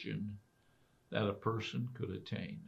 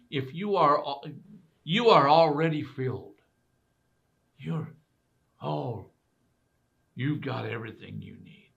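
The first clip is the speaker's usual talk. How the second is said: mocking, higher and louder; sarcastic; 4 semitones higher, 7 dB louder than usual. Paul teasing the Corinthians, sarcastic. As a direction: play up the sarcasm. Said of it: "he's saying sarcastically".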